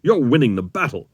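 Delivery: upbeat commander's pat on the back; grinning encouragement. A narrator's reading. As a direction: cheer him on with a grin. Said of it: "grinning at him".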